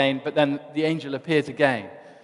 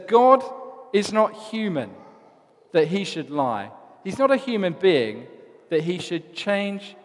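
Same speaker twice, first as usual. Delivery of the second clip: proclaiming; 3 semitones higher than usual. Acted. Balaam proclaims to Balak.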